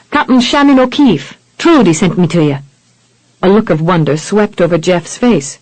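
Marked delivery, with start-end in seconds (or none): 0.1-2.6 Irish brogue. Acted. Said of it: "Irish-infected brogue".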